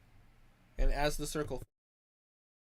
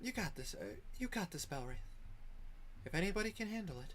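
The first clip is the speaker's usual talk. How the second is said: reassuring; 5 semitones higher, 5 dB quieter, faster than usual. Acted. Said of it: "kinda a reassuring hand on the shoulder".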